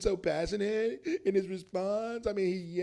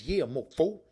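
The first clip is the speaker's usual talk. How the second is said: cocky shooter; 3 semitones lower than usual. Shown as a demonstration. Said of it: "if you shoot them like this".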